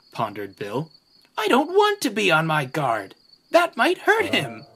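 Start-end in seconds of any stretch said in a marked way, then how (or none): 1.4-4.6 high, worried whimper. Acted. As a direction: whimper it like a frightened child. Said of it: "whimpered Ben".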